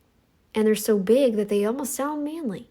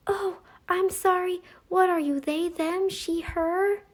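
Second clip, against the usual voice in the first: mocking oversensitive people; 8 semitones higher, 4 dB quieter than usual. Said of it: "those are the people that are like".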